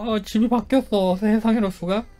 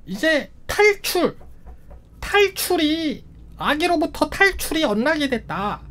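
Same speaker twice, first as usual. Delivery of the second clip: drawn-out announcement; 6 semitones higher, slower than usual. Pretend. Reading the new goal.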